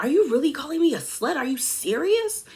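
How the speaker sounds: imitating her, high and fast indignant questions; mildly acted outrage, pitch climbing; worked-up disbelief. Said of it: "she gets so worked up".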